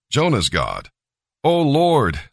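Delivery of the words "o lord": a desperate cry upward, higher, to the Lord; pleading. A narrator's reading. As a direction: plead for mercy, slightly raised. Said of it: "they pleaded".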